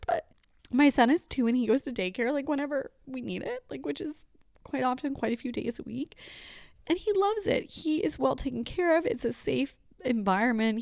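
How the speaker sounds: tearful, pitch still up; still teary. Real, not acted. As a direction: voice still high and wobbling after tears. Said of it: "I'm very emotional".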